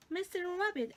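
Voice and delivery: high loud call. A narrator's reading. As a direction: call after him. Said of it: "Alice called".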